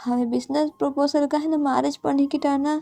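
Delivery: mildly choked-up confession to her father; tearful pleading. Acted. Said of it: "நீங்க still நல்லா அழுதுட்டே". (அப்பாவிடம் அழுது கெஞ்சும் மகள், மென்மையாக)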